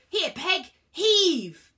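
loud, high effortful command; high, hearty shout of exertion; urging the horse. A narrator's reading. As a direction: heave the words out at full voice. Zeus urges horse to pull.

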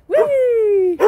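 high, loud playful squeal; excited squeal. Real, not acted. Owner squealing to dog at play, excited. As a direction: squeal with glee as the dog runs.

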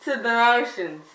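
garbled through a mouthguard; wearing a mouthguard. Real, not acted. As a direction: speak with a mouthguard in. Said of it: "it's hard to understand".

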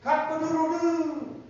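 high, loud, drawn-out crowing; rooster crow. Acted. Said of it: "The rooster will crow".

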